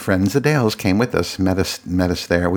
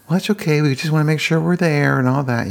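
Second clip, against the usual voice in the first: in-laws' voice; 8 semitones higher than usual. Retold or imitated. Voicing in-laws' reply.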